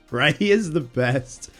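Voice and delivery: ordinary delivery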